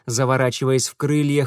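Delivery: usual speaking voice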